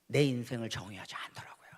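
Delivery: a hushed, unvoiced confession to the crowd; intimate whisper. Real, not acted. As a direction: pull them in with a whisper. Quiet climax of sermon point. (조용히 속삭이며 고백하듯)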